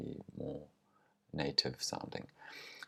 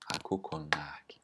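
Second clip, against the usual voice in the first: whisper. Shown as a demonstration. Whispered repeat of example.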